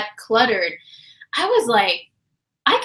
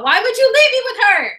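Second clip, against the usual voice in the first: whiny complaint; 11 semitones higher, 4 dB louder than usual. Retold or imitated. Mock-betrayed complaint.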